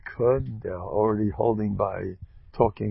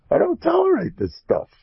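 much higher and louder, emphatic declaration; strict; 6 dB louder than usual. Real, not acted. Rabbi insisting he tolerates nothing in class, emphatic. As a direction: lay down the law. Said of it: "I'm zero tolerance".

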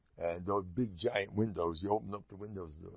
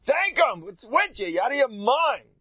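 much higher, louder fervent outcry; fervent exclamation; 13 semitones higher, 7 dB louder than usual. Real, not acted. The speaker urges his listeners to give thanks, fervently crying out. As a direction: rouse them to thank God.

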